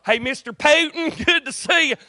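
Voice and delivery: high, sing-out assistant greeting; cheery assistant. Acted. Assistant Pam greeting Putin at the office, high-voiced welcome. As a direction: greet the visitor in a put-on high voice. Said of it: "I send my assistant, Pam".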